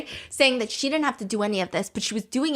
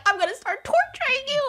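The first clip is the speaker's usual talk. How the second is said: mock menacing quote. Quoted line opening the recap.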